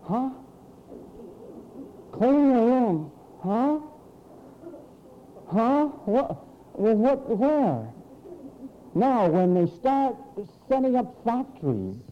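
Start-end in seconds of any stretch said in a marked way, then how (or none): 0.0-7.9 mock dumb replies; lightly voiced whiny child.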